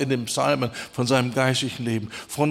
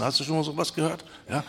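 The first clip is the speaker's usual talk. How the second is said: rattled off fast, quieter; quick aside; 7 dB quieter, much faster than usual. Real, not acted. Preacher quickly asking the congregation, fast quiet aside. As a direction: toss the question off quickly.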